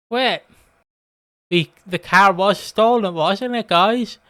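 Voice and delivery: Honey suddenly realising, to the guys; mock realisation. Host retelling Honey noticing the car, slow dawning surprise. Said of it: "Honey going".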